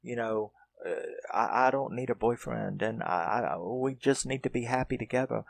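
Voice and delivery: upset mother. Retold or imitated. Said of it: "But she's upset".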